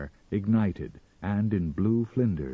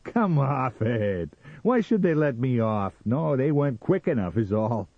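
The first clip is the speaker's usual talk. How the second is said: high, loud dismissal; loud scoffing; 7 semitones higher, 5 dB louder than usual. A narrator's reading. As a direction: scoff at her at full voice. Sam scoffs at his wife.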